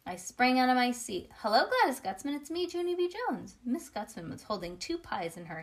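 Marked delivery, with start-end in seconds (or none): 1.4-3.6 high-pitched, excited hello; eager greeting. A narrator's reading. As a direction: call out to a favorite grown-up, climbing high. Narrator acts child's eager greeting.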